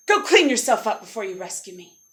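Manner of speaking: loud opening, dropping away; bossy prince. Acted. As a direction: order your rescuer off dismissively. Prince orders his rescuer away.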